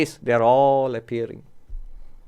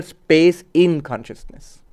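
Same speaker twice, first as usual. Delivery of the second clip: "in" stressed as the key word; slower than usual. Shown as a demonstration. Teacher corrects the usual idea of space, stress on "in". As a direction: put the weight on "in", between space and consciousness. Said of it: "giving stress on the word in".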